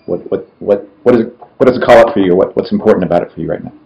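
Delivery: ordinary delivery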